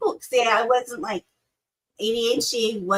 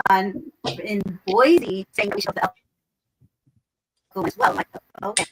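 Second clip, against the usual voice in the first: mic breaking up. Real, not acted. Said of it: "You are breaking up a lot".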